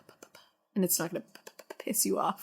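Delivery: fast mock p-pops into the mic; plosive popping. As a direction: pop every p hard. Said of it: "Your eyes got wicked wide when you did that".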